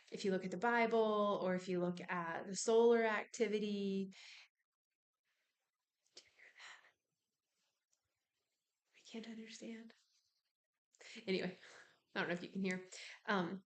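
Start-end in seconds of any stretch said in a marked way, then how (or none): 6.2-9.9 very soft, half-whispered aside; hushed aside. Real, not acted. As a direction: drop almost to a whisper, distracted. Distracted aside about a noise.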